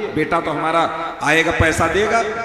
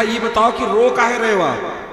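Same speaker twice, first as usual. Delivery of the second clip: worried doctor, building plea; 4 semitones higher than usual. Acted. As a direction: coax him to stop crying, rising urgency. Doctor pleads with crying old man.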